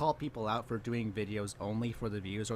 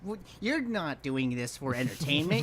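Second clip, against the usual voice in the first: loud, high-pitched accusation; heated, raised-voice outburst; indignant callout; 7 semitones higher, 6 dB louder than usual. Real, not acted. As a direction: shout them down as a grifter. Calls out the video's hypocrisy.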